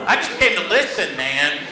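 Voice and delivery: hammed-up indignation at the reading; mock complaint. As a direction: gripe like a put-upon student.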